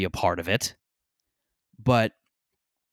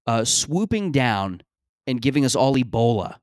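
raised voice, listing absurd fears in earnest; mock absurd worry; 2 semitones higher, 3 dB louder than usual. Comic imagined reply to hookah bar guys, mock earnest alarm. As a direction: play it like a doomsayer airing a silly worry. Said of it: "as if I had just said".

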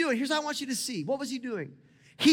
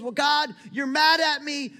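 anguished cry to God; 4 semitones higher, 5 dB louder, slower than usual. Pretend. Pleading to God, voicing despair.

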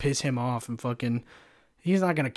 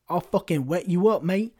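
imagined British thug threat; mock British accent; 4 semitones higher than usual. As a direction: threaten in a put-on British accent, higher-pitched. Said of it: "maybe he fucking turns British".

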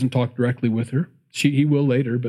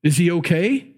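concerned father; 4 semitones higher, slower than usual. Retold or imitated. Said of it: "Should have said".

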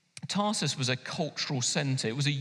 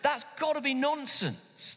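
higher, mocking voice of doubting scholars; sceptical commentators; 6 semitones higher than usual. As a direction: scoff at the idea as a dismissive critic. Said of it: "they say".

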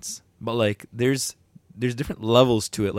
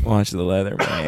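McConaughey impression; 4 semitones lower than usual. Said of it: "that's Matthew McConaughey".

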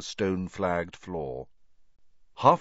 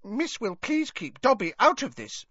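high elf voice, nervous; a scared elf pleading to be left out; anxious squeaky elf; mumbling elf; 13 semitones higher than usual. A narrator's reading. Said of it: "Dobby mumbled".

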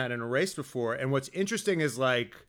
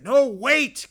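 mock alarm; 7 semitones higher, 6 dB louder than usual. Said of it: "it's like".

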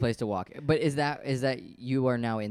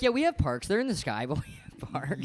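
hammed-up higher smug impression; mock Manhattanite; 4 semitones higher than usual. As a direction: imitate snooty locals defending their sky park. Mocking Manhattan residents.

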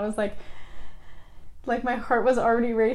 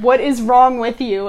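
startled blurt; 7 dB louder than usual. Retold or imitated. Student retelling blurting at a crying visitor, startled and loud. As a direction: blurt it out loudly in disbelief.

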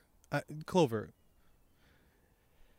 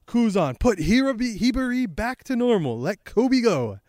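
higher, louder screamed demand; Garp; 7 semitones higher, 4 dB louder than usual. Acted. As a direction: shout orders at him. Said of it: "Garp is screaming".

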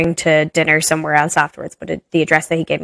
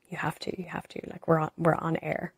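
urgent hushed whisper; softer, hissed plea; 17 dB quieter than usual. Retold or imitated. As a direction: hiss it so the mic won't catch it. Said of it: "like, whispering".

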